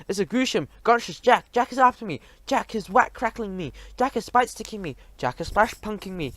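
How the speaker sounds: high, panicked giant cries; a nightmare-stricken giant pleading; frightened giant. A narrator's reading. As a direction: whine like a hunted giant.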